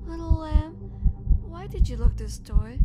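loud furious roar at the door; loud, raging monster yell; monstrous yell. Acted. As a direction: bellow at the cowering victim. Monster breaks in, yelling.

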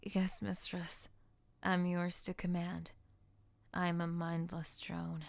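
slow, toneless obedient whisper; mindless drone voice. Pretend. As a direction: recite like an empty puppet.

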